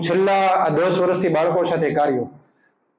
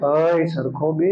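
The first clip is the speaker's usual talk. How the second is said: loving mock scold; 2 semitones lower, much slower than usual. Shown as a demonstration. Parent mock-scolding child, slow loving voice. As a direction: tease the child fondly, drawn out. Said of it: "પ્રેમથી ગુસ્સામાં બોલવું હોય".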